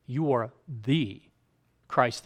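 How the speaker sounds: slow, with "the" held before a pause; emphatic THE. Shown as a demonstration. Preacher explaining the one Christ, slow stress on "the". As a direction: draw out "You are the", then place "Christ".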